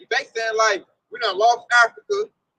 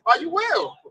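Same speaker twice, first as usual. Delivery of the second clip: incredulous question; 3 semitones higher, slower than usual. Retold or imitated. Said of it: "He gave him that look too, like".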